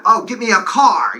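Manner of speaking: thick New York accent on CAR; self-mocking New York accent; downstate New York accent. Shown as a demonstration. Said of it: "compared to our very horrible".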